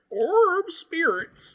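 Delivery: put-on very high, quavering, old-timey prospector voice. Coaching someone to waver more: wavering old-timey prospector voice. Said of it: "waver your voice a little bit more, like uh, like old timey prospect".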